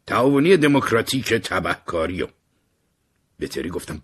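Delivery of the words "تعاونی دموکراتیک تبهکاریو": higher and louder, a cheery shout from the window; excited call. Acted. Harry leaning out the window, shouting hello excitedly. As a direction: call out gleefully to Martin. Harry answers Martin's question.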